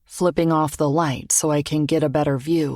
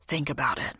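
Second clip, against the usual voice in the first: whispering; 7 dB quieter than usual. A narrator's reading. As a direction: breathe it close to her ear. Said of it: "whispering three words".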